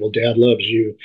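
normal talking voice

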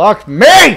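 loud, high-pitched shouting. Getting stuck by a lava wall in the game: yelling curse words. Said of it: "I'm just yelling curse words".

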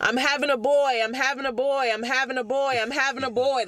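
high, acted screaming, repeated over and over. Retelling a person on a podcast screaming, imitating someone screaming. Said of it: "the person in the podcast was screaming".

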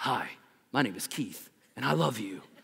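deep, soft, head-over-heels romantic voice. Retelling what Keith said while helping a woman up: Keith's deep voice. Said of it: "in his deep voice way".

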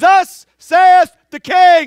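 drawn-out, high, full-volume scream at top of lungs. Showing how a herald gets a message out, screaming at the top of lungs. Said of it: "you scream at the top of your lungs".

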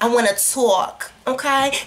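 New York accent laid on, slow. Switching mid-talk to say a line in a New York accent. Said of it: "can I say that in my New York accent?".

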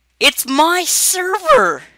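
voice breaking into a very high squeak. Failing to log into a game that is down for maintenance; voice crack. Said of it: "Sorry for that voice crack".

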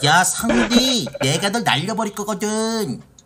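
high, put-on anime cartoon hero voice. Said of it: "그 밀짚모자 역할을 맡으신 거야?".

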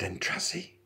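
soft, urgent whisper under the breath. Hearing marching footsteps outside the door, a man tells his companion, whispered. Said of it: "whispered Arthur".

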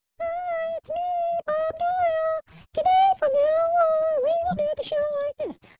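squeaky, very high cute voice, drawn out. Host wondering if being a cute blonde will help the show, put-on high voice. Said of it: "that voice is a little high".

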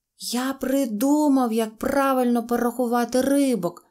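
bright, happy, high-pitched cheerful outburst. Mosya the donkey, while his friends struggle to count the fish, cheerfully exclaiming. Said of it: "весело вигукнув ослик Мося".

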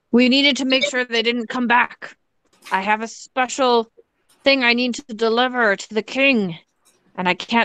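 low goblin character voice. Answering someone who wants to be let in, in a deep goblin-y voice. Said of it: "in my like deep goblin-y voice".

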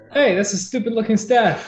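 yelling out. Calling out to a figure on a balcony: yelling out. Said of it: "You just yell out".

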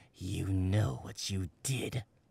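low, hushed, menacing, threatening growl. Glaring at another man inches away, he speaks in a low, threatening growl. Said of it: "lowered his voice into a low, threatening growl".

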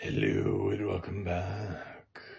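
slow, creepy, spooky voice. Opening with a welcome back for spooky season, in a creepy voice. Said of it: "Is this voice creepy?".

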